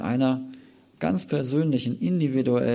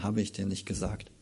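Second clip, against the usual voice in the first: tender; 3 semitones lower, 8 dB quieter than usual. Acted. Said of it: "ganz süß, wie er zu ihr spricht".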